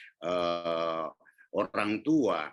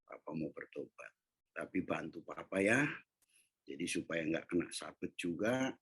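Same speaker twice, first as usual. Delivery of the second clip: softer, tender reassurance; gentle promise; 3 semitones lower, 6 dB quieter than usual. Retold or imitated. Father promising daughter no more beatings, tender. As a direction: soothe the little girl.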